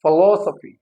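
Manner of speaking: "philosophy" as fi-LOS-uh-fee; stress on LOS. Shown as a demonstration. Teacher repeating the right form, stressed on LOS. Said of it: "it is philo".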